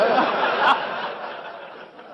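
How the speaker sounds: a long high laugh without voice; amused wheezing laugh; high breathy laugh. Real, not acted. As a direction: burst into airy laughter. Laughs at the lady's claim.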